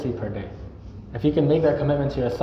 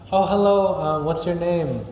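bright, eager hello, high on the Oh; friendly welcoming voice; super friendly greeting; 5 semitones higher, slower than usual. Shown as a demonstration. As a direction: greet a newcomer warmly, a touch slow. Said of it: "you're super friendly".

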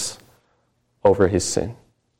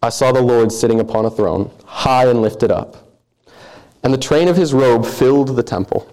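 solemn, measured reading of scripture; a preacher reading the passage aloud. Acted. Reads Isaiah passage aloud.

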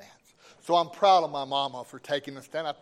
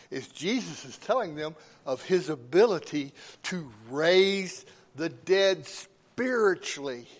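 emphatic sermon delivery with deliberate pauses; preaching; 4 dB louder than usual. Real, not acted. Preacher explains new life in Christ to the congregation, emphatic preaching. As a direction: preach it, leaning hard on key words.

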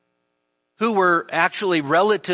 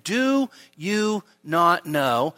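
slow, accusing question; accusatory; much slower than usual. Shown as a demonstration. Preacher to the Corinthians, slow accusing question. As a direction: draw it out like a charge against them. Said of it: "an accusatory tone to it".

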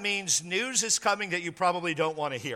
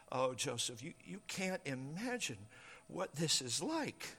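tag; 4 semitones lower, 12 dB quieter than usual. Acted. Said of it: "and she's weeping".

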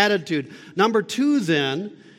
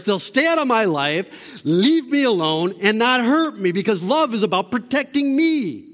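louder, insistent mock protest; self-protective insistence; 5 semitones higher, 5 dB louder than usual. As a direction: voice a self-centred plea, pushed up and loud. Voicing the self-protective attitude he rejects.

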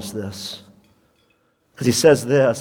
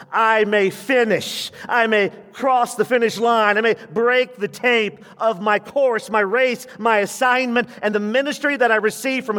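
Paul's voice; 10 semitones higher than usual. Retold or imitated. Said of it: "Paul sharpens the pencil".

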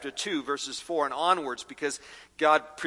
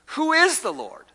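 much higher, mocking Pharaoh's sneer; 11 semitones higher than usual. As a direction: sneer it up high like a scoffing king. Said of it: "the question Pharaoh posed".

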